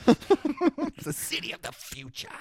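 high, slow, stiff line reading; cardboard cutout delivery. Retold or imitated. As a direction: drag it out, wooden and stiff. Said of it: "He delivers it like he's a cardboard cutout".

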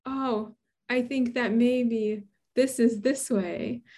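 slow, hesitant, lightly timid suggestion; meek and timid. Retold or imitated. Junior researcher venturing an opinion after much reading, meekly and timidly. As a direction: offer it tentatively, drawing it out. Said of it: "meekly and timidly say".

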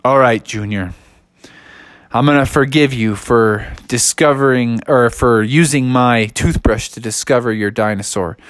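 put-on gruff older brother forgiving; low big brother voice. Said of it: "Bubby was like".

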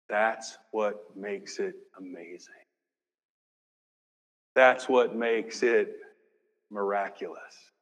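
whispered wonder; hushed awe. Real, not acted. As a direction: marvel quietly. Preacher hushes for emphasis.

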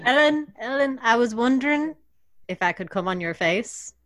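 a hint of an Irish lilt; Irish accent. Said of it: "sex things in an Irish accent".

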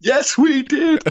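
squeaky chorus reply, slow; high mock crowd voice. Gangs answer in chorus.

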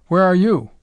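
high, loud questioning cook; bewildered cook. A narrator's reading. Cook asking the commander in turn, high bewildered question. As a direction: ask it back high and puzzled. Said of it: "The cook's stammering voice came back".

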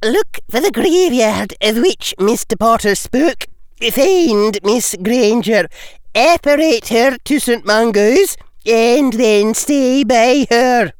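put-on crisp, brisk Scottish accent. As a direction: give Scottish orders crisply. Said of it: "crisp Scottish accent".

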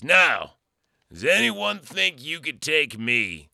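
mock military bellow; drill sergeant challenge. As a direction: throw down a challenge to the recruits. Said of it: "very much like Lee Army Ermey".

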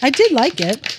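words around a sip of beer; while sipping a drink. Real, not acted. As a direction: talk just after a swallow. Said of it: "Excuse me while I drink this".

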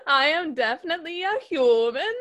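mock a foreign boy insisting in a bad American accent; lightly imitated German-boy accent; Robert Pattinson. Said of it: "Robert Pattinson's American accent".

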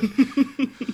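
light, high-pitched chuckle. Real, not acted. Host amused at own freebie sign-off, chuckling.

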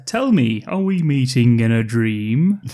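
slow, hammed-up romantic question; dreamy hero line. Tony asks Jane dreamily, slow hammed-up romance. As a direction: play the smitten hero, drawn out. Tony's line acted in recap.

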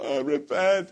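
hammed-up wail of penitence; mock crying. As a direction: imitate a churchgoer tearfully repenting. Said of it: "people get down and cry".

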